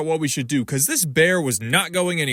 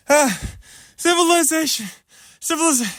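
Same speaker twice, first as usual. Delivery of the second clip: overjoyed cry, much higher; joyful shout; 10 semitones higher than usual. Real, not acted. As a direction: hail civilization like a castaway. Relief at end of trail.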